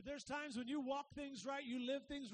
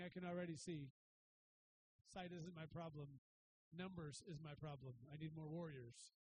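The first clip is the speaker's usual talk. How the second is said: servant's thoughts; 8 semitones lower, 6 dB quieter than usual. Retold or imitated. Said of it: "The servant's thinking".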